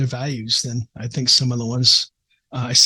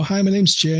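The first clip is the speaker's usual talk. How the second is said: golly gee shucks; 4 semitones higher than usual. Retold or imitated. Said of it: "doing the golly gee shucks".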